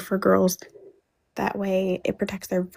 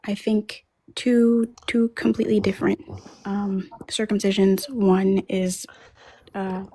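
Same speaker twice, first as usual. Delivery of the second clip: choppy audio cutting out; breaking up. Real, not acted. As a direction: voice dropping out over the call. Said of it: "You're breaking up".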